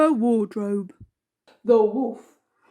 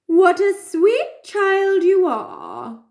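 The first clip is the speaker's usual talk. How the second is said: wolf voice; 7 semitones higher, slower than usual. A narrator's reading. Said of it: "said the wolf".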